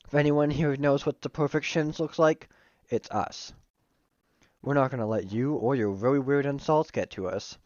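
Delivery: a hint of Southern twang; slight Southern accent. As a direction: let the voice slip slightly Southern. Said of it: "like, southern for a bit".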